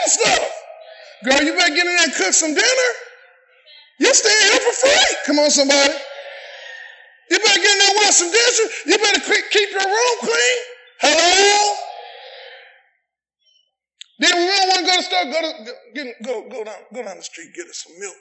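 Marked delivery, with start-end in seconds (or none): 1.2-10.6 fast, higher scolding parent; bossy parent. Pretend. Parent to college daughter, fast mock scolding. 15.2-18.1 much softer, lower reluctant muttering; grudging mumble. Pretend. Daughter sent to the store, low grudging mumble.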